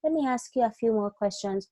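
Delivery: the wrong way, pushing back at a demanding patient; arguing back. Shown as a demonstration. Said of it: "you can make them into an angry patient".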